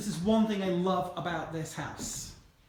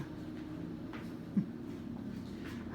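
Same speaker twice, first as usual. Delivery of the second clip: soft, breath-only laugh; 11 dB quieter than usual. Real, not acted. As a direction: laugh quietly to yourself. Amused at own accent attempt.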